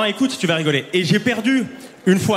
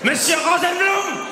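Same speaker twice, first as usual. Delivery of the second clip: acted character voices; 5 semitones higher than usual. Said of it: "il a dit".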